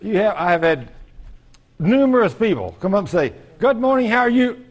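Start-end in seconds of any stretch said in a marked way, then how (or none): 3.6-4.6 high, chirpy mock hello; cheery greeting. People coming up to the preacher, high cheery greeting. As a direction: pitch it up like an eager greeter.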